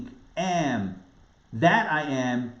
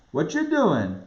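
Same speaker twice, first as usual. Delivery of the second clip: "What you doing?" in a clipped New York accent, "you" run together; 3 semitones higher, slower than usual. Shown as a demonstration. Rabbi showing how New Yorkers say it, New York accent. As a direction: drop the "are" like a New Yorker. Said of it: "we would say".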